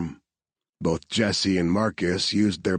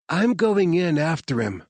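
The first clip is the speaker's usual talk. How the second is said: determined; 10 semitones higher than usual. Acted. Claire's resolve.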